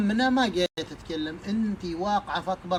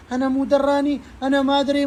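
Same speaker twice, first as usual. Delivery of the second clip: loud, high defensive cry of innocence; mock shouted protest; 8 semitones higher, 7 dB louder, faster than usual. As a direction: yell it out like a caught mother denying everything. Mother protests she didn't know. (صرخة إنكار عالية بصوت الأم)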